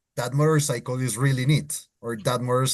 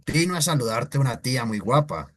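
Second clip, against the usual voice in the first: Spain Spanish accent; faster than usual. Shown as a demonstration.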